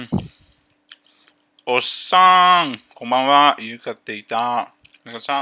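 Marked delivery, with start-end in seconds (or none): 1.6-3.6 loud greeting. Real, not acted. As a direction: call out a cheerful hello. Greeting arriving chat viewers.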